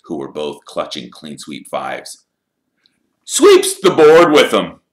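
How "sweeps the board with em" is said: smug, gloating jab; lightly voiced sneer; nasty taunt. A narrator's reading. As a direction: rub their noses in it. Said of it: "he smiled nastily".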